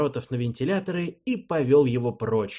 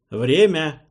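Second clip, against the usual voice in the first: loud call into the corridor; shouted call; 5 semitones higher, 9 dB louder than usual. Acted. Pilot calling into the corridor, loud shout. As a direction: shout the time call down the hall. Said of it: "крикнул я в коридор".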